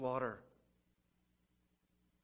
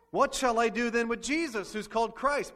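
desperate Pilate; 5 semitones higher, 6 dB louder than usual. Acted.

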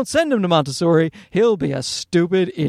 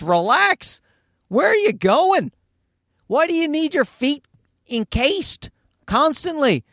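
comic rant; 7 semitones higher than usual. Acted. Ranting at shoe wearers.

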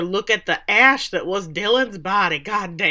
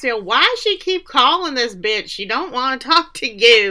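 sassy friend voice. Pretend. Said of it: "Lenny with another voice".

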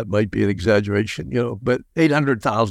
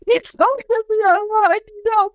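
high, slow put-on pilot drawl; mock-calm captain voice, stretched out; airline pilot drawl. Pilot on the radio, drawling to his wingman. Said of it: "in my very finest airline pilot drawl".

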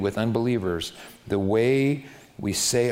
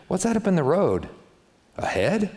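higher, urgent alarmed question; 7 semitones higher than usual. Shown as a demonstration. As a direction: spot danger on the road ahead and react. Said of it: "Do you see how that's completely different".

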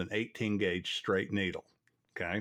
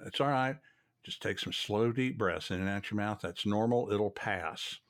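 calm reassuring. Shown as a demonstration. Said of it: "You just say it really calm".

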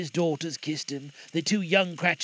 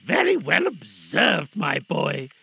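slow, emphatic praise; approving cry; 5 dB louder, slower than usual. Acted. Father praising his son Peter, hearty approval. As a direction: give hearty, deliberate approval. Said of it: "cried Bob".

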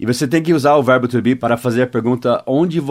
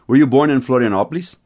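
"were you born in Florianópolis?" with the pitch rising on "you" and at the end; question intonation. Shown as a demonstration. Teacher modeling the English question for students, with a rising tune. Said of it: "Com essa entonação".

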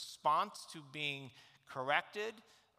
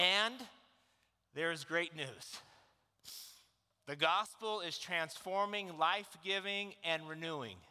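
rising preacher fervor; 2 semitones higher, 3 dB louder than usual. Real, not acted. Preaching climax.

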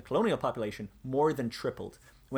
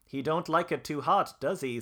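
through gritted teeth; 4 semitones higher than usual. Retold or imitated. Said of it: "said Lemon through his teeth".

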